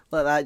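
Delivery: imitated laugh. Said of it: "just that Steve Ronsley laugh".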